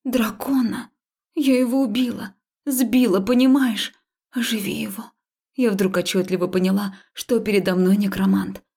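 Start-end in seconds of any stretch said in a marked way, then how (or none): 0.0-5.1 upset. Acted. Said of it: "Этот вопрос почему-то разозлил".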